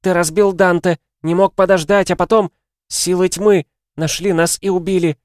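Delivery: high, loud, ranting mother; yelling. A narrator's reading. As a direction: hurl accusations at the son at full pitch. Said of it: "заорала его мать". (истошно орёт на сына)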